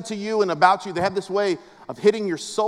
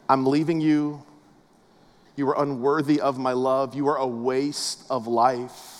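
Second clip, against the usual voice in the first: cold rejection; 7 semitones lower than usual. Acted. A leaving spouse wounding their partner, low and cold. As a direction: deliver the wound coldly and low. Voicing hurtful words said to us.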